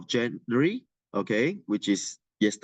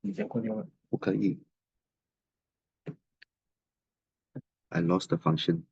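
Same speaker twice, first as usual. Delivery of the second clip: distant, away from the microphone; faint off-mic chatter; 5 dB quieter than usual. Real, not acted. Mic trouble, talking away from mic.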